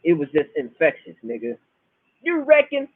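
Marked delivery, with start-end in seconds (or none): 2.2-2.9 high, hard-hit Bahamian catchphrase; imitated Bahamian granddad's pet phrase; Basil Riley. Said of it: "so hard".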